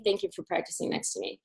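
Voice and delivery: soft, breathy whisper; hushed sincere whisper; whispered thanks. Retold or imitated. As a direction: whisper your thanks to him. Whispered gratitude to stranger.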